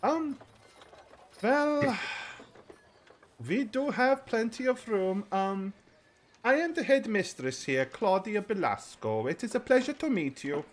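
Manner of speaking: high, flustered, apologetic voice; a harried woman gushing apologies; high, hurried, fluttery matron voice; frazzled headmistress. Acted. Headmistress speaks to the party.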